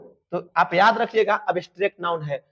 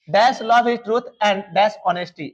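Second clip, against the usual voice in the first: dictation pace; much slower than usual. Shown as a demonstration. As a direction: read each word out for the class to copy. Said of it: "teacher dictating sentence".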